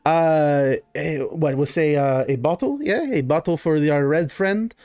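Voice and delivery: lightly voiced baron, thinking aloud; a touch of fussing noble host; Baron, accommodating host. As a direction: arrange drinks haltingly for a guest. Baron orders drinks for guests.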